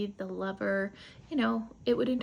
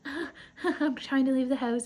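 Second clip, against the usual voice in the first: higher, louder, laughing through the words; nervous laughing protest; 5 semitones higher, 5 dB louder than usual. Retold or imitated. Margot to Billy, trying to leave, nervous laugh. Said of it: "she was like".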